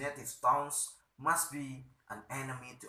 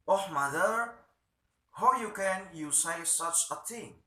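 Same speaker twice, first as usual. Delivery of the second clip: indignant protest; 5 semitones higher, 5 dB louder than usual. Acted. Petra protesting to mother.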